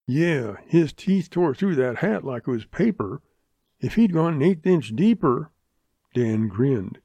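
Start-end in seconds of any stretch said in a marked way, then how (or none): 0.1-5.5 a touch of impressed Western townsman; slightly raised, emphatic folksy voice; lightly in character, marvel at the close call; lightly voiced Pop Turner. Pop on the dog bite.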